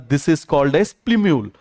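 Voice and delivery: each word spaced out for the class to repeat; slow teaching drawl. Shown as a demonstration. Teacher slowly spelling out the term for students. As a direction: lay it out slowly so they can say it back. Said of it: "क्या बोलेंगे आप मुझे बताइए जरा".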